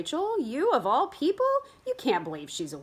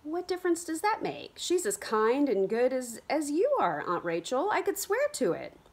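pleading; 7 semitones higher than usual. Acted. Kit pleads for Hannah.

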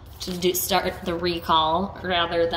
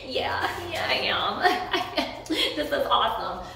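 laughing; 4 semitones higher, slower than usual. Pretend. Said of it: "You would be like".

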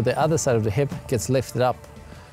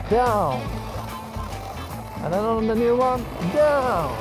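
high called-out commands; calling out cues; 8 semitones higher than usual. Real, not acted. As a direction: coach cues called out while skiing. Coaching cues while skiing.

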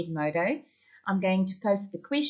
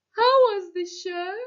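put-on sleepy child; 10 semitones higher, 6 dB louder than usual. A narrator's reading. Boy waking up to his parents, sleepily. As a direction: stretch it out like a child just waking. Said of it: "said Paul sleepily".

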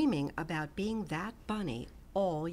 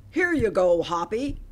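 a touch of a hearty voice, louder; friendly neighbor rabbit; 8 dB louder than usual. A narrator's reading. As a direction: hand it over kindly. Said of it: "Buster Birch said".

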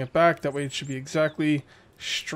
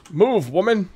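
higher, louder annoyed shout; yelling at villager; 5 semitones higher, 6 dB louder, slower than usual. Real, not acted. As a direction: shove her aside with your voice. Yelling at villager blocking him.

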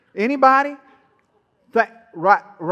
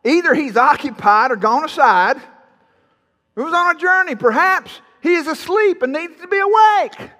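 mocking; 2 semitones higher than usual. Elijah jeering at the prophets about their god, mocking. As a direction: taunt them with mock suggestions, rising. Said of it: "Elijah mocked him and said".

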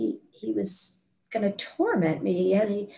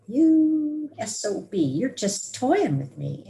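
angry retort; 4 semitones higher, slower than usual. Retold or imitated. Demon hands her tiny scissors.

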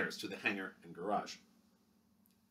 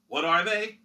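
higher, hearty hero voice, slower on the three L's; rally the kids like a matinee idol; booming can-do hero to children; heroic pep talk; 7 semitones higher, 7 dB louder, slower than usual. Acted. Hero addresses school children.

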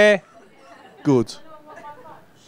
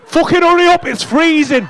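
mock smoker moaning; 7 semitones higher than usual. Comic imagines the punter freezing while smoking, mock moan. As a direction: play the cold smoker by the bin.

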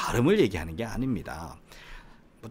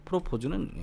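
프로포즈 with 포 pitched high; back-stressed 프로포즈; second-syllable stress; 6 semitones higher, 5 dB quieter than usual. Shown as a demonstration. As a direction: punch the 포 in 프로포즈. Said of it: "뒤에 강세가 있죠".

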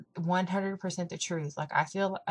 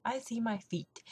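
whispered aside, almost a secret; softer, unvoiced hush to the camera; a soft whispered confession; 3 semitones higher, 5 dB quieter than usual. Real, not acted. Confiding about her weight loss.

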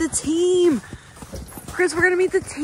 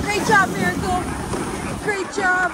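cheering on; 5 semitones higher than usual. Real, not acted. Cheers on the sled dog.

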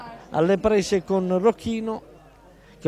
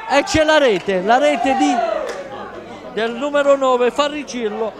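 goal call; 4 semitones higher than usual. Real, not acted. Second goal called.

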